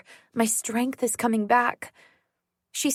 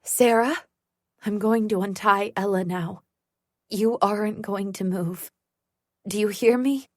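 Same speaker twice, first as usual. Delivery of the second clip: calm and steady. Acted. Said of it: "Mom's voice is calm and steady".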